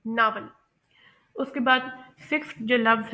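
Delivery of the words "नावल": नावल with an open ah vowel; American pronunciation. Shown as a demonstration. Teacher repeating for learners, American pronunciation of नावल. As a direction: say "नावल" American style, like "nahvel". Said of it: "इसमें short ए की sound आएगी".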